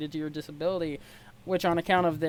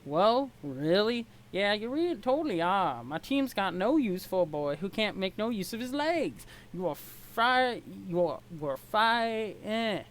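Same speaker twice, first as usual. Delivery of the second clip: put-on crappy Southern accent. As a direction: ham up a Southern accent and stumble over it. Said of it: "giving him a really crappy Southern accent".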